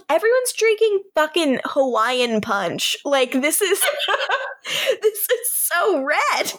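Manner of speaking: high-pitched disbelief breaking into laughter; laughing incredulously. Real, not acted. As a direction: crack up mid-sentence, voice climbing high. Cracking up over bright red champagne.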